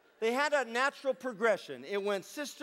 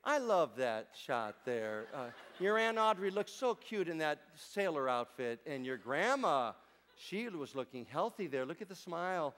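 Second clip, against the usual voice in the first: quoting dad; 3 semitones lower, 4 dB quieter than usual. Retold or imitated. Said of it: "he would say".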